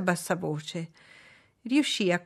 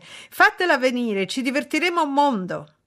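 raised, higher excited voice; eager crying out; 7 semitones higher, 5 dB louder than usual. A narrator's reading. Young guests demanding the gypsy for amusement, crying out. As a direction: clamour for it eagerly. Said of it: "gridò tutta la gioventù all'unisono".

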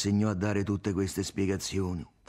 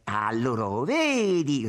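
accusing yell rising high and loud; shouting; 5 semitones higher, 5 dB louder, slower than usual. A narrator's reading. Tommaso face to face with Irene, shouting. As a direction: build to a loud cry on the last word. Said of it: "rigridò".

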